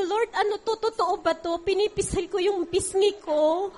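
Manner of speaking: can't believe it's real, laughing; delighted surprise breaking into a laugh; joyful disbelief. Real, not acted. Disbelieving joy at husband's change.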